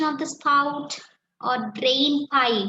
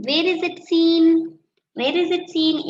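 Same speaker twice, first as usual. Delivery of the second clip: louder, calling the question out to the class; loud classroom question; 5 semitones higher, 7 dB louder than usual. Real, not acted. Teacher asking her students, calling out loud. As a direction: project it to the back row.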